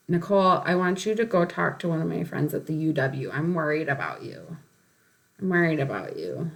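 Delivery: worried sister. Retold or imitated. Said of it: "my sister is like".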